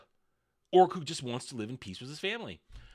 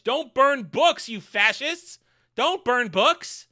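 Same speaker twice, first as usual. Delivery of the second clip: raised, high-pitched mock protest; mock pleading; 6 semitones higher, 5 dB louder, slower than usual. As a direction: draw out each word in an exaggerated loud plea. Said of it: "gonna plead with them".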